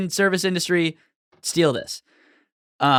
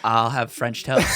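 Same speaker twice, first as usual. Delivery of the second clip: chastened customer; 5 semitones lower, slower than usual. Retold or imitated. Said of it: "And they go".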